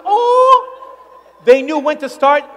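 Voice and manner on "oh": mock low "oh". Shown as a demonstration. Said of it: "There was not a low pitch".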